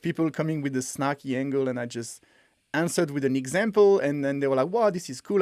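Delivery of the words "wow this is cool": higher-pitched imitated wow; impressed reaction. Snarky commenters won over by an example, impressed reaction. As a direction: act out a pleasantly surprised critic.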